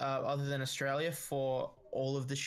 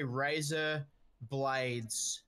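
slow American "razor blades"; American accent, a pause between "razor" and "blades"; much slower than usual. Shown as a demonstration. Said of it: "if you have an American accent".

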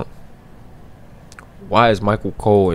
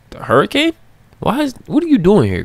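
higher, louder, rising disbelief; surprised recognition; 4 dB louder than usual. Real, not acted. Gamer spotting The Hurricane, loud surprised disbelief. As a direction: call out the name in shock.

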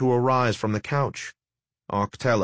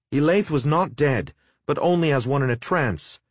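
heated, higher-pitched retort; indignant protest; 5 semitones higher than usual. Acted. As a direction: snap back at the liar. Husband angrily contradicts the sorcerer.

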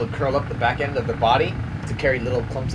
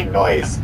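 cockroach voice. Retold or imitated. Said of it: "greatest impression of a cockroach".

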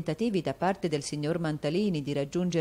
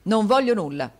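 1 disconsolate; 5 semitones higher, 8 dB louder than usual. A narrator's reading. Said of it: "rispose il marito sconsolato".

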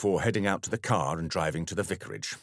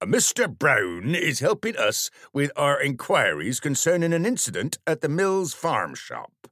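official tone; 8 semitones higher, 6 dB louder than usual. Acted. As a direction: announce it like an official statement. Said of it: "using his most official tone".

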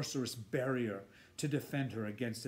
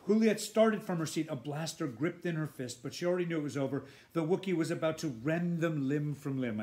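tense, urgent reading; 3 semitones higher, 4 dB louder than usual. Shown as a demonstration. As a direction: read it with rising urgency. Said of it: "I'm just doing that part again".

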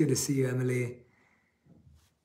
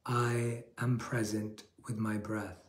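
slow, a touch softer mantra; slow affirmation; 3 semitones lower, 8 dB quieter, slower than usual. Shown as a demonstration. Monk repeating the affirmation for listeners, slow and soft. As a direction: let it settle, slow and calm. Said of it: "Repeat after me".

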